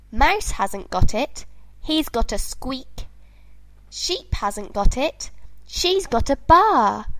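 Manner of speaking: little kitten, sad and pleading. Acted. Kitten voice retelling its search.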